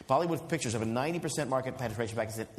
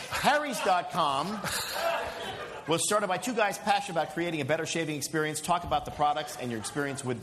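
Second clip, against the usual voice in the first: ad read. Acted. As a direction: read the ad copy while cracking up. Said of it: "That's actually copy that I shouldn't have read".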